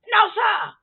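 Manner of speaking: firm refusal. Real, not acted. Refusing the pastor.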